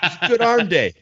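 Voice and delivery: Italian mobster. Pretend. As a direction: play the mobster gym bro. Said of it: "my guy just sounded like an Italian mobster".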